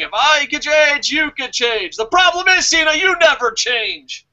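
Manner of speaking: mock dramatic speech; mock movie speech. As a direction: deliver it like a big ring speech. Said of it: "John Cena's in the ring".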